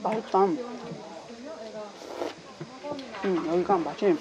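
talking between bites; speaking while chewing. Real, not acted. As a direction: mouth partly full of noodles. Seen 0: Chopsticks at mouth, then chewing while speaking between bites.

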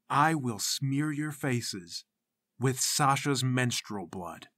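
very slow, deliberate pronouncement; solemn threat. Acted. Boy leader threatening captive spies, solemn threat. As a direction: draw each word out ominously.

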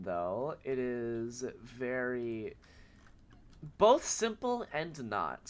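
stuffy, blocked-nose voice; nasal sick voice. Real, not acted. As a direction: talk through a head cold. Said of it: "get ready to deal with my nasally voice and my coughs".

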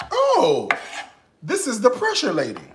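a hint of her boyfriend's excitement; imitating boyfriend. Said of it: "he goes".

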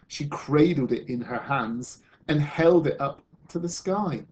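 measured, expressive picture-book reading; storyteller reading to children; story narration. Acted. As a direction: read a story aloud to a class, with lift on the key words.

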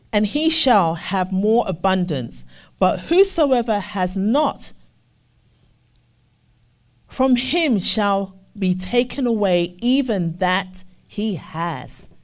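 slow, weighty scripture read. Acted. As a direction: lean into each word of the verse. Reads scripture in preaching cadence.

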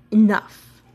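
hammed-up grunting gorilla. A narrator's reading. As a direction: let the father gorilla grunt the word. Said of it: "the rooting pig sound".

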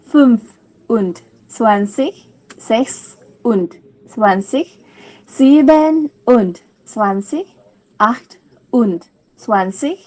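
each number clipped apart for the class to repeat; teacher leads a German counting drill; German count to ten. Shown as a demonstration. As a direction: count one by one so they can echo. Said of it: "ท่องตามนะคะ".

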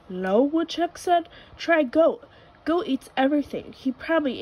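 lightly voiced woodchuck. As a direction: perk up a little for the woodchuck.

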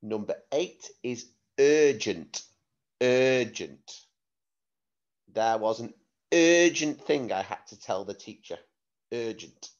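clear, careful word-sentence-word dictation. Shown as a demonstration. Spelling test dictation.

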